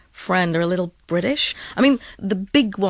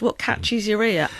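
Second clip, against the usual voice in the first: ordinary talk, nothing marked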